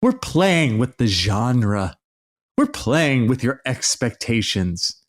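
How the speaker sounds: lightly voiced pompous director, slowed; hint of a smug artiste explaining; high and mighty filmmaker. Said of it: "some high and mighty thing like".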